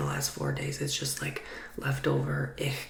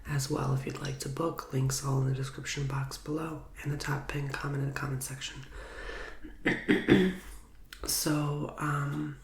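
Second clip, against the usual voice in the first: ASMR whisper. Real, not acted. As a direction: whisper close to the mic, gently. ASMR tarot reading, whispered throughout.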